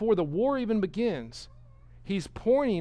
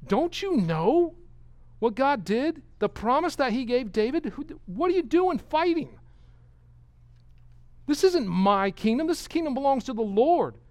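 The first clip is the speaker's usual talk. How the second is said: sarcastic taunt; 7 semitones higher, 3 dB louder than usual. Retold or imitated. King mocking Jeroboam for fighting God, high sarcasm. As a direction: scoff at him in disbelief. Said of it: "You can almost hear the sarcasm".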